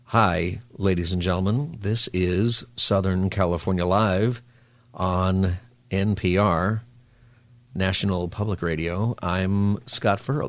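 slow, hushed public-radio host; a lightly voiced, drowsy NPR announcer; mock NPR host. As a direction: parody of a laid-back public radio intro. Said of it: "imagine if this show was".

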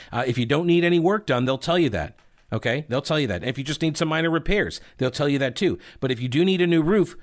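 upbeat sponsor pitch; ad read. Acted. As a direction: sell it like a radio ad. Reads a sponsor ad.

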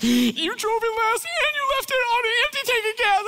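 high-pitched, indignant accusation; accusing spouse. Retold or imitated. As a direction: blame everyone in a squeaky huff. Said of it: "you're accusing people".

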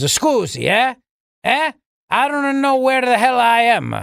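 high-pitched, bewildered mock Biden; Joe Biden. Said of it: "it's what he says as he falls down".

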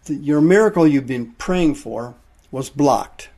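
urgent pulpit appeal to repent; preaching. Acted. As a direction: press the point home to the congregation. Preacher pressing the congregation.

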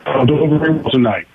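choppy phone line; radio breaking up. Real, not acted. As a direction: call cutting in and out. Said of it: "we're sounding like we're breaking up".

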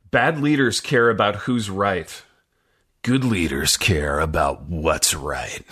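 slow, measured reading of the quote; standard read. Shown as a demonstration. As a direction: read it straight and deliberate. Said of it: "Here it is in standard".

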